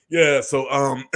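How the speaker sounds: mock nervous celebrity apology, throat clearing; Will Smith impression. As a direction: play the awkward apology video, lightly voiced. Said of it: "Let me do my Will Smith impression".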